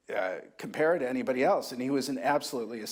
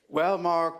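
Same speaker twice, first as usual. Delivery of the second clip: put-on mid-Atlantic accent; 5 semitones higher, 5 dB louder than usual. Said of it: "he had this wonderful mid-Atlantic accent".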